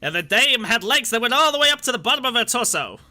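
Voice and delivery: a hint of a hard-boiled gangster; lightly voiced noir tough guy; noir detective. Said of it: "No, it's like".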